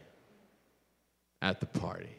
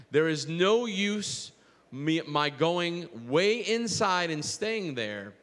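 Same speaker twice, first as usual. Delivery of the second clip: poem reading; 3 semitones higher than usual. Real, not acted. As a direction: let each image land as you read. Reads a poem aloud.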